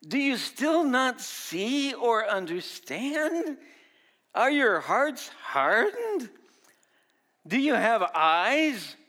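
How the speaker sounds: slow, high, loud rebuke; Jesus rebuking his disciples, slow and loud. Retold or imitated. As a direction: drag out each question in dismay. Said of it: "Jesus asked them".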